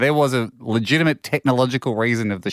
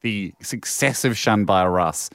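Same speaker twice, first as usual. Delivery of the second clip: slow and deliberate; 3 semitones lower, slower than usual. Real, not acted. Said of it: "serious point slowly made".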